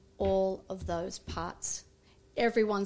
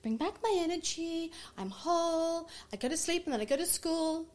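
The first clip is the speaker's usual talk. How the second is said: put-on children reciting prayer; 5 semitones higher, 4 dB quieter than usual. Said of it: "they're like".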